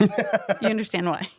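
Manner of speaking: slow, laughing explanation; amused, drawn-out delivery. Real, not acted. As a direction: let the laugh run through the words. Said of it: "if you heard me laughing".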